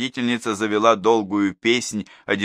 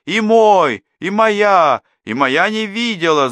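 much higher and louder overlapping cries; noisy protest; 12 semitones higher, 8 dB louder, slower than usual. A narrator's reading. Parents protest to the teacher, loud and high. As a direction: shout over each other in protest. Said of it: "зашумели родители".

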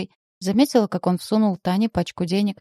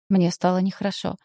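ordinary delivery, nothing marked

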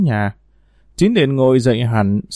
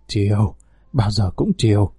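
soft, lower murmur of a lover; breathy lover's reply; 4 semitones lower, 3 dB quieter than usual. Acted. Lover softly promising his mistress he'll always indulge her. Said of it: "đáp trong hơi thở của người tình".

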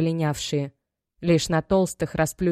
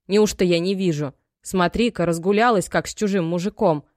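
louder, reproachful mother cutting her off; scolding mother; 4 dB louder than usual. Acted. Мать отчитывает дочь. (мать отчитывает дочь, громче)

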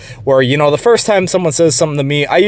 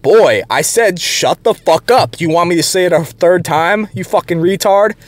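re-enacted, slightly raised threat; retold angry comeback; 3 semitones higher than usual. Teller replaying his retort to the coworker, retold angry comeback. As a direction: act out telling someone off, raised but controlled.

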